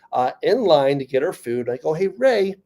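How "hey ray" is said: bright call to a friend, pitch jumping high; mock cheery greeting. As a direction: sing out the question to Ray. Calling friend in line.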